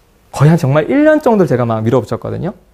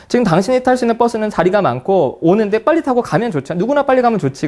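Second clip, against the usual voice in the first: pitched up, pressing the point; exasperated insisting; 6 semitones higher than usual. Retold or imitated. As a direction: push it like you can't believe them. Retold argument at bus stop.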